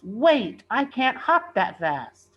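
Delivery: loud, high, slow plea; calling after. A narrator's reading. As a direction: call out as he runs away. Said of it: "Renita yells".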